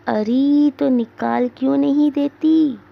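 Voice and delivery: mother calls out to her daughter, irritated; impatient shout. Acted. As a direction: yell impatiently from the room. Old mother shouts from the room.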